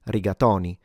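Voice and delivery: "rigatoni" with an open o in to; everyday Italian "rigatoni" with open o. Shown as a demonstration. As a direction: say "rigatoni" with the o opened towards "aw". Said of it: "do pronounce it with an open O".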